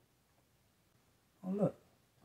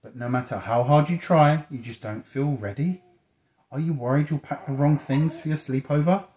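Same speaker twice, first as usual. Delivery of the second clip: animated picture-book questions, pushed louder; reading to children; 4 semitones higher, 8 dB louder than usual. A narrator's reading. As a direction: put the book's question to a listening child.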